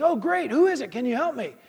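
lightly acted stranded man asking for help; relieved skier. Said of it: "And the skier says".

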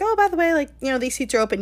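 high, sweet, helpful opener; mock friendly offer. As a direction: lift it up like a breezy favour.

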